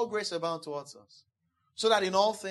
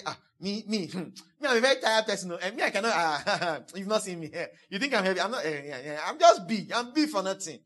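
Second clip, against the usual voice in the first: hammed-up tired heavy man, laughing; mock self-pity. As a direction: playfully mimic someone moaning about their weight. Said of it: "But when you now say".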